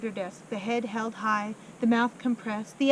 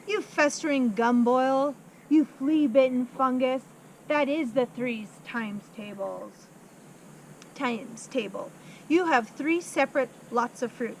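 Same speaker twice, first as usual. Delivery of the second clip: bully him with every word; ranting headmistress. Acted. Headmistress rants insults at pupil.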